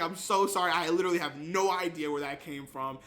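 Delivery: mild mock-panicked apology; retold frantic excuse; imitated freak-out. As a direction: plead as if caught out, starting a bit loud. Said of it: "he just starts freaking out".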